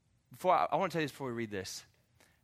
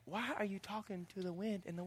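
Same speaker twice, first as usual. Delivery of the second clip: puzzled disciples; 2 semitones higher, 10 dB quieter than usual. Retold or imitated. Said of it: "disciples being like".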